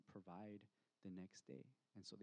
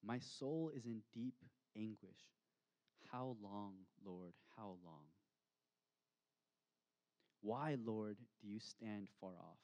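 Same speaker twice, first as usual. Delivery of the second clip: lament read aloud. Shown as a demonstration. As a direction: let the plea sink, heavy and unhurried. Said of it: "Versus lament".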